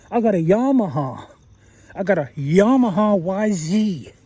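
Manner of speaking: imitating an American with YAH-ma-ha and "zee"; American accent. Vlogger imitating how Americans talk about bikes, American accent. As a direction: put on an American accent, drawing out Yamaha. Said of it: "I notice Americans say Yamaha".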